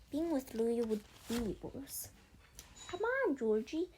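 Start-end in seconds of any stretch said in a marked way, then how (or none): 2.9-3.9 calls out higher and louder; calling him over the water. A narrator's reading. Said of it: "Sage called to him".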